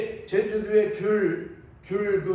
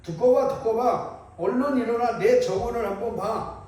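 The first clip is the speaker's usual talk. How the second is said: raised, eager storyteller's call; excited calling; 3 semitones higher than usual. Acted. Frog waking his neighbour to see the garden, excited calling. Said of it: "옆집 개구리의 환성 소리에".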